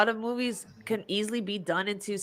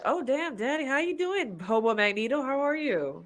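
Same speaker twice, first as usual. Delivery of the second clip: mock flirty greeting; 4 semitones higher, 5 dB quieter than usual. Flirting with a game villain.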